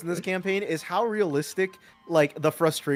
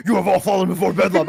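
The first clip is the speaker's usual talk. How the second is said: retold villain line; 4 dB louder than usual. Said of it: "And then Harry said".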